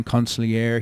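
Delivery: consigliere said the Italian way, lightly rolled r and open vowels; Italian pronunciation. Shown as a demonstration. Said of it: "How do you like my Italian pronunciation".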